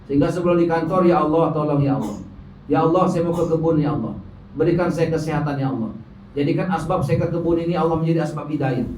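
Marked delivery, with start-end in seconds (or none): 1.1-8.9 low, subdued prayer; murmured personal supplication; pleading prayer. Acted. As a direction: ask God for help, low and humbly. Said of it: "Minta tolong kepada Allah".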